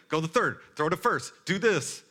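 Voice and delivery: high, loud overlapping shouts of instruction; chaotic yelling. Retold or imitated. Crowd yelling at a confused boy pitcher, loud and high. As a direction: bark orders like a crowd of frantic parents. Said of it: "'cause everyone's like".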